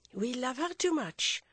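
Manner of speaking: with dignity. A narrator's reading. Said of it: "said the spectacled sister with dignity".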